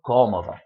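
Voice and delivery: cómodo stressed as CO-mo-do; stress on first syllable. Shown as a demonstration. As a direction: lean on the CO of cómodo. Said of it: "Two syllables from the end".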